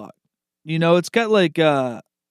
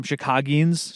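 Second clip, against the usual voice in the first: laughing whisper; slower than usual. Real, not acted. Mocks the odd word "Chicagians.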